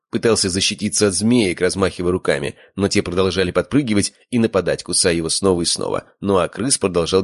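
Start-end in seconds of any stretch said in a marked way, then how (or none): none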